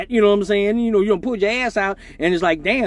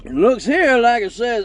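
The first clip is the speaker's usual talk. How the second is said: slow, lightly voiced TV judge; a hint of a stern judge reading the charge, slowly; Judge Joe Brown; 3 semitones higher, 4 dB louder, slower than usual. Slow mock judge reading the charge to the defendant. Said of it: "went immediately into Judge Joe Brown".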